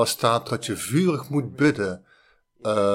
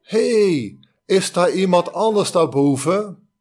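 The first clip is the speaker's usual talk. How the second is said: much higher, loud shout upward; panicked shout; 6 semitones higher, 5 dB louder than usual. Acted. Man told to let go calls for someone else, high loud shout. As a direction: call for anyone else, alarmed. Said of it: "keek weer omhoog en zei".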